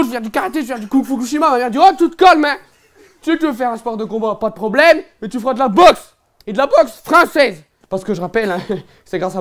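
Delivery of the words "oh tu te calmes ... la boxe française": louder, a hint of a stern mum; stern mother. Mother orders her son to do boxing, stern. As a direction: lay down the law as mum.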